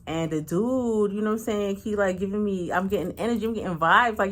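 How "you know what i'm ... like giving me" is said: normal talking voice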